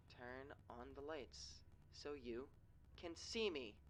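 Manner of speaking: slow, soft eerie chant rising at the end; a lightly voiced haunting lure; creepy sing-song voice. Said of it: "only finishing this song".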